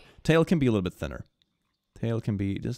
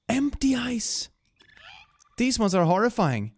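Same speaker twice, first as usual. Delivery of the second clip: high, slow gasp of shocked delight; gasped surprise; 12 semitones higher than usual. Real, not acted. Streamer sees creepy empty eyes, gasps high and slow. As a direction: recoil at the creepy eyes, drawn out. Gasping at horrifying new eyes.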